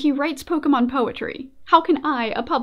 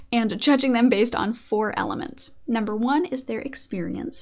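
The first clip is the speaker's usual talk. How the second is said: usual speaking voice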